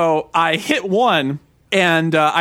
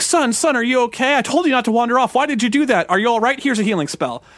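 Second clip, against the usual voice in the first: worried dad; 5 semitones higher than usual. Retold or imitated. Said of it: "He's like".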